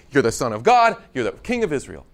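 blurted out loud, then dropping back; excited exclamation. Retold or imitated. Nathanael blurting his faith to Jesus, excited. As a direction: burst out with sudden belief. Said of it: "as soon as he heard that".

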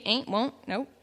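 ordinary delivery

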